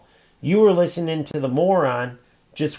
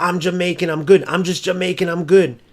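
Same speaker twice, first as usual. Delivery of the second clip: mock brag; 3 semitones higher than usual. Mocking a bragging opponent in a game, smug boast. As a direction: boast it back like a troll. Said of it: "what are you supposed to say to".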